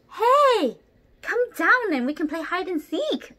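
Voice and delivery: calling up. Acted. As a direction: call out to a friend high up. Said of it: "Orangutan calls".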